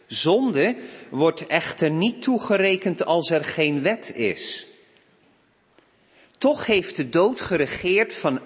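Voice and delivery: emphatic reading, key words lifted; scripture reading. Real, not acted. Minister reading Romans to the congregation, emphatic scripture reading. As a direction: declaim the epistle with deliberate stresses. Reads Romans five aloud.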